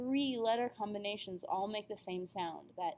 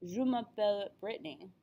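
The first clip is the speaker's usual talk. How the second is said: French phrase, then "Brittany" in plain American English; American-accented name breaking the French flow; switch to English accent. Shown as a demonstration. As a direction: say "Brittany" as "BRIT-nee" after the French. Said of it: "thrown off by switching languages".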